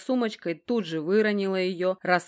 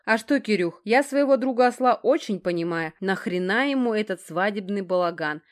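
slightly raised, louder chummy voice; a hint of a cheerful loudmouth; breezy joking buddy; 3 semitones higher, 5 dB louder than usual. Геныч chatting to his friend about the wedding, breezy. Gena chats as a character.

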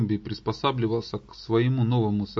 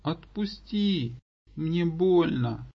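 zombie voice; 5 semitones higher, slower than usual. Acted. Tortured zombie begs.

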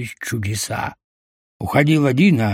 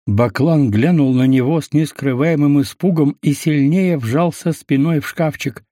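usual speaking voice

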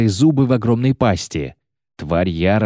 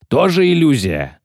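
high, raised incredulous question; 7 semitones higher, 4 dB louder than usual. A narrator's reading. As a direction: ask it in alarmed disbelief. Shaken question during attack. (недоверчивый вопрос)

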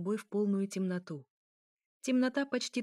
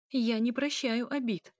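higher, lively declaration; lightening the mood; 5 semitones higher, 3 dB louder than usual. A narrator's reading. Elya tries to ease the tension, lightly. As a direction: say it playfully with lifted pitch. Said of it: "пытаясь разрядить обстановку".

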